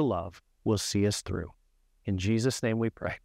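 calm, earnest prayer voice; steady, sincere closing prayer. Acted. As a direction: lead the congregation in prayer.

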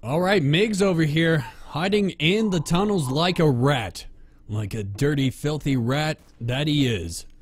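play-by-play building from measured to excited; sports announcer. Pretend. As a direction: narrate the chase like a sportscaster. Resumes play-by-play commentary.

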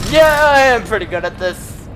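smug. Real, not acted.

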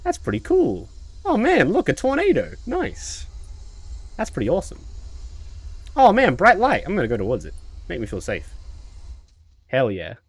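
high, chirpy unfazed delight; mock-happy socially awkward guy; cheerfully oblivious Alan. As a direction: act thrilled by every disaster. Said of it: "he's just like".

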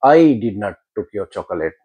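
I did not took your chocolate with I punched; stress on I. Shown as a demonstration. Teacher contrasts meanings by stressing I. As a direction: lean on I, said slowly. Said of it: "इसका I के ऊपर जोर दूंगा".

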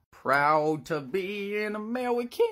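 high, loud hammed-up patriotic yell; mock battle yell. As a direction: belt it out like a crazed gunman. Shooter's yell from hallway.

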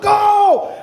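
imitating a fan yelling at the match, high and loud; fan's shout. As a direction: belt it out like a football crowd. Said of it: "and then they shout".

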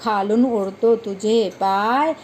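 put-on slow, sing-song poem reading for children; poem recitation. Teacher reciting a funny poem to children, slow sing-song. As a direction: recite each line slowly to the class.

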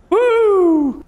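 sudden high yelp; startled yelp. Real, not acted. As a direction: yelp out in shock. Startled yelp during jump.

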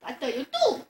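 laughing, shouting with glee; excited shout. Real, not acted. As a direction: yell it out in triumph. Excited kill count.

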